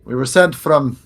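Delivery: loud official-sounding call; yelling. Acted. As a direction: shout like a guard reporting in. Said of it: "Like, yelling".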